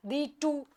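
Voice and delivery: "thee to" with the beat on "to"; weak "thee", drawn-out stressed "to". Shown as a demonstration. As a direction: scan "thee to" as da-DUM. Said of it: "अब ये to यहाँ पे stressed है".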